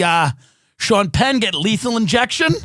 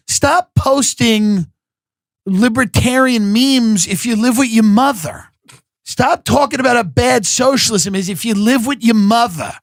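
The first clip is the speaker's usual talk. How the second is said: loud rant; 4 dB louder than usual. Real, not acted. Comic scolding basement-dwelling libertarians, loud rant. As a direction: hammer each demand home.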